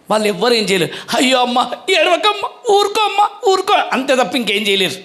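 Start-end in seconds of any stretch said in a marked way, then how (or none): 1.2-3.7 high, laughing mock comfort; scene: preacher mimics relatives hushing a crying woman, high mock coo; mock consoling. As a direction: coo at them like a fussing relative, half laughing. Mocking people who console uselessly.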